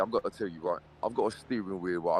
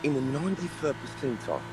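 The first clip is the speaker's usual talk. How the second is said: high-pitched, playful disbelief; mock incredulity; 8 semitones higher than usual. Driver teasing a skilled rival called Noob, mock incredulous. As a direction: act affronted, voice pitched well up.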